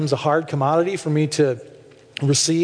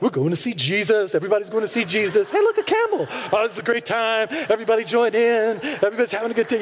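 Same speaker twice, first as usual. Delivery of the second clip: giddy wise men; 3 semitones higher, faster than usual. Retold or imitated. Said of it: "and they're like".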